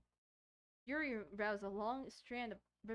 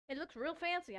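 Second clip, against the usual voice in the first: odd quoted tone; 7 semitones higher, 4 dB louder than usual. Acted. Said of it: "I don't know why he said it like that".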